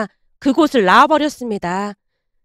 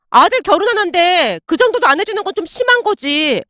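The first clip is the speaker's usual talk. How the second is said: higher, sulky complaint with pouted lips; pouting grumble; 5 semitones higher than usual. Acted. Ex-girlfriend sulking about his parents, pouting grumble. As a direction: grumble it with a pout. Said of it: "입이 대빨 나온 채 투덜댔습니다".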